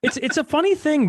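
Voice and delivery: words spilling out through a laugh. Real, not acted. Amused by the rice detour with his cohost, laughing. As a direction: still laughing as you start the line.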